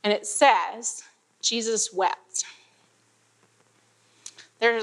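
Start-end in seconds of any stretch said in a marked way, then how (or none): 1.4-2.4 slow, soft, weighty reading of Jesus wept; pause, then let it land quietly; sacred pause. Shown as a demonstration. Preacher reading the shortest verse with reverent pause. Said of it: "these sacred pause".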